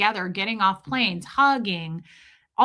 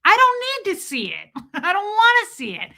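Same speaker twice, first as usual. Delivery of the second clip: teary laugh; 10 semitones higher, 5 dB louder than usual. Real, not acted. Venting about hate from viewers.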